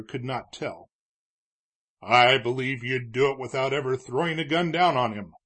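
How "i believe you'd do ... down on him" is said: louder, firm declaration; declared. Acted. Judge convincing Morgan to take the badge, firm louder declaration. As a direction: state it as settled fact, louder. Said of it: "Judge Thayer declared".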